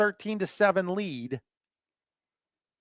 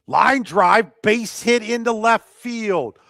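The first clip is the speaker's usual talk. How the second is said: excited hit call; 2 semitones higher, 5 dB louder, slower than usual. Real, not acted. Live call of a base hit.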